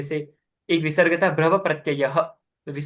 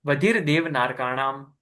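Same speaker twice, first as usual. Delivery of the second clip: model recitation; 3 semitones lower than usual. Shown as a demonstration. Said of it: "एक बार और टुकड़े में फिर पूरा पढ़ेंगे".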